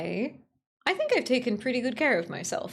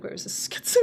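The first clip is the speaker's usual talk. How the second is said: mock muttered whisper to herself; breathy hushed aside, imitating; whispered quote; 4 dB quieter than usual. Streamer imitating a quiet mic, unvoiced whisper. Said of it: "like you were just whispering to yourself".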